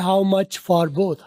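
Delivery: slow, each word linked into the next; how much for both with the ending of each word run into the following one, said slowly; linked sounds. Shown as a demonstration. Teacher slowly linking how much for both for the learners. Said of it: "pay और in को मिला के बोलो".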